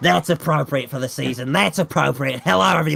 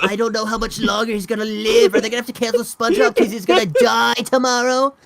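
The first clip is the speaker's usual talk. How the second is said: loud, higher, hammed-up shock; mock outrage; 6 semitones higher, 3 dB louder than usual. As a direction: shout it in fake alarm. Mock outrage about old voice.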